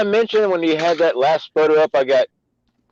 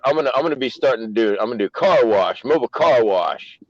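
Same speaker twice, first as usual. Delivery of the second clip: put-on African American accent; 3 semitones lower than usual. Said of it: "There's this black voice again".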